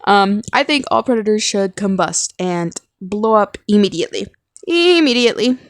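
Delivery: audible heavy breaths between words; talking in one breath, panting. Real, not acted. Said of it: "sorry for the heavy breathing".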